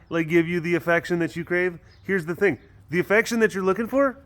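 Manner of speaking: put-on high, playful cat with a Russian accent. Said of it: "in a Russian accent".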